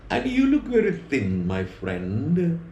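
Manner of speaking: lifts the voice high for the dog's retort; a lightly voiced, high house dog answering the wolf. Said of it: "Doak says".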